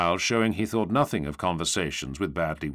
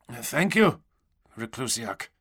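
awkward, hesitant reply; 2 semitones higher than usual. A narrator's reading. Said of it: "he managed".

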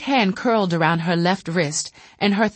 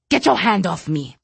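snapping. Acted. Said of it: "Lassimer snapped".

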